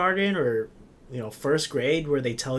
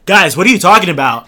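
loud, oblivious full-volume question; booming, higher-pitched mock interruption; imitating a non-whisperer; 4 semitones higher, 13 dB louder than usual. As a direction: blurt it out much too loud, mimicking someone clueless about whispering. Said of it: "Same fucking volume".

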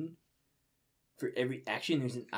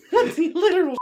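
real shout, much higher; incredulous yell; 13 dB louder than usual. Real, not acted. Reader shouts in disbelief at the plot. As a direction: cry out at the nonsense.

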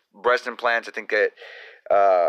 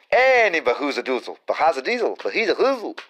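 silly nonsense voice; 4 semitones higher, faster than usual. Pretend. Silly nonsense word play.

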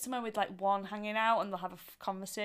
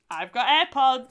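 smug; 5 semitones higher, 14 dB louder, slower than usual. Retold or imitated. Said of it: "people are going".

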